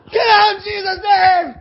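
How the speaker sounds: high, very loud, slow rebuke; yelling command. Retold or imitated. Pastor yelling at the demon to leave Paul. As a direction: bellow it at the demon. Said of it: "yell louder".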